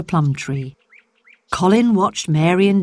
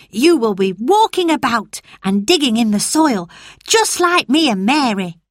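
put-on boy Dickon; 6 semitones higher than usual. Dickon reassures Colin.

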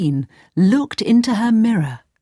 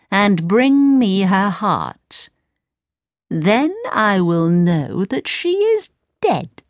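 cold queen; 3 semitones higher than usual. Acted. Wicked queen orders huntsman.

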